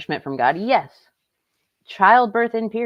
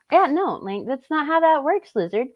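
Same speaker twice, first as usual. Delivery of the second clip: sarcastic correction; 10 semitones higher than usual. Real, not acted.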